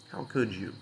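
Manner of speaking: soft, mildly let-down mimicry; understated reproach, falling away at the end; retold disappointment. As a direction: imitate a disappointed boss, quietly. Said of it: "she was disappointed in me".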